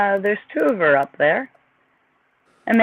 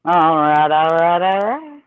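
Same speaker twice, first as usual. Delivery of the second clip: Matthew McConaughey; 3 semitones lower than usual. Acted. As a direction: copy a famous Texan's catchphrase. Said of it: "Matthew McConaughey".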